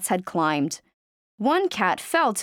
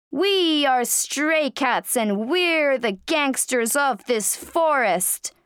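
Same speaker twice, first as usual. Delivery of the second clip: slow, higher gangster cat growl; grotesque monster voice; 5 semitones higher than usual. Acted. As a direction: boast like a swaggering monster cat. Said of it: "said the monster cat".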